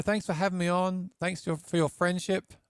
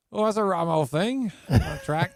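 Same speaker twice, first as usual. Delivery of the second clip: put-on British accent; 2 semitones higher, 4 dB louder than usual. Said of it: "for the next seven days I was talking like".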